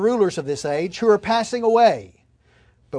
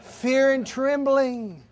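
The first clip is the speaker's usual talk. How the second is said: wry punchline; 6 semitones higher, much slower than usual. Acted. Punchline after story.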